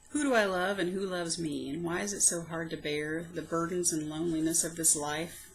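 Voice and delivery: measured, heartfelt poem recital; poem reading. Acted. Poet reading her old poem aloud, heartfelt recital. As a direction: read it like a private diary poem.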